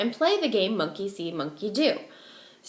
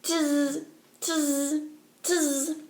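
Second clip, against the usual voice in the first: monkey chatter; 4 semitones higher, 4 dB quieter, much slower than usual. Acted. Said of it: "stomped their feet back at him and said".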